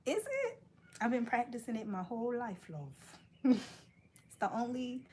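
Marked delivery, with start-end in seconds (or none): 0.0-3.6 higher-pitched mock British accent; cheeky put-on British. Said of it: "I go back to British".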